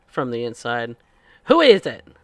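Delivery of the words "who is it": very loud, high, odd feminine voice. Voicing someone behind a door asking who knocks: strange feminine voice. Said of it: "a strange voice that comes out".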